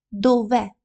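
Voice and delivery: Дове with the stress on the final е. Shown as a demonstration. Teacher shows the stress in Дове, final е stressed. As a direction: lean on the last syllable of Дове. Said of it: "Наголос падає саме на е".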